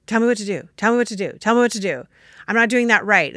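mock demanding. Voices people begging for strategy.

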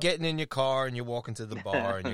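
light mock Boston accent. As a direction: drop the r's, Boston style. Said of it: "Boston accent".

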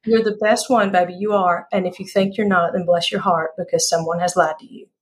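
playful Southern sass, falling away at the end; Southern accent. Shown as a demonstration. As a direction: lay on your best Southern accent. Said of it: "do your best Southern accent".

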